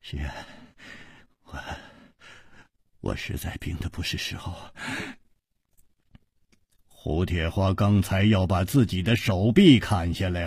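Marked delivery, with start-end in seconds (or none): 0.0-4.5 very soft, half-whispered wry words; a sick man's bitter little joke; wry weak smile. Acted. Chu Liuxiang admits to his friend he fell ill, wry and faint. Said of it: "苦笑着说".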